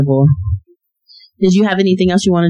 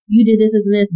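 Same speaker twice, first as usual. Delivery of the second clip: higher-pitched imitation of blame; mock blaming; 6 semitones higher, faster than usual. Wife imitating herself blaming her husband, higher-pitched. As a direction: rattle off mock accusations. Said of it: "blaming the other person".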